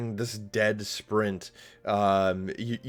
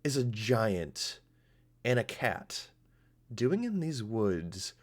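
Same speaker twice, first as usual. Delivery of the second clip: Tara speaking; 4 semitones higher than usual. Acted. Tara chiding the giant and cat, lightly voiced and higher. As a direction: drily scold the noisy hunters. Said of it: "She says".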